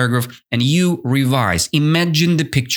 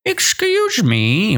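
slow, high, timid excuse me; a grasshopper humbly begging for food, timid and slow; humble request; 9 semitones higher, slower than usual. Retold or imitated. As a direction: ask ever so politely, stretching it out. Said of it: "He was like, the grasshopper humbly begged".

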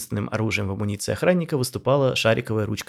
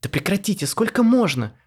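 rattling off; 10 semitones higher, 5 dB louder than usual. A narrator's reading. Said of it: "тараторила Марина".

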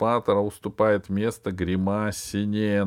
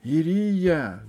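high, loud call over the noise; 8 semitones higher, 5 dB louder than usual. A narrator's reading. Tadeusz calling to his wife, loud. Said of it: "голос Тадеуша перекрыл шум зала".

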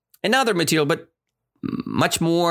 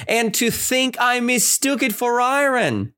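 delighted; 9 semitones higher than usual. Retold or imitated. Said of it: "she cried in full of smiles".

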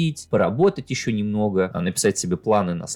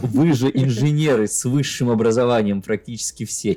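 loud exaggerated outrage, higher; mock indignant rant; 4 semitones higher, 5 dB louder than usual. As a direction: rant at them in mock anger. Mock rant at billing engineers.

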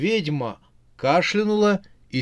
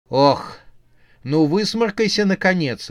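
high, louder disgusted cry; disgusted exclamation; 6 semitones higher, 5 dB louder than usual. A narrator's reading. The witch Анжела begs the zombie to blow his nose, high and disgusted. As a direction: squeal it in disgust. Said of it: "воскликнула Анжела".

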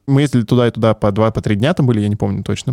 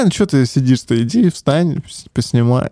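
gopnik voice. Pretend. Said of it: "Я говорю, как гопник".

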